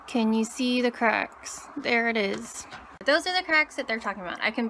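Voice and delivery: restricted jaw movement; barely moving the mouth; stiff dried face mask. Real, not acted. Seen 0: Dried pale mask covers chin and cheeks throughout; no mask in refs.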